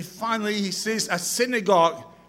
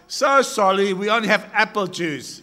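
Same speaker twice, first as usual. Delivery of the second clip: Chinese waiter; 2 semitones higher, 4 dB louder than usual. Acted. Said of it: "And the waiter says".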